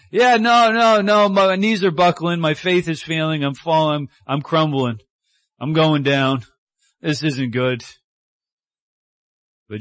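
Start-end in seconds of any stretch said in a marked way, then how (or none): 0.1-7.8 hammed-up fear, starting loud then sinking; panicking Peter. Peter panicking as faith fails.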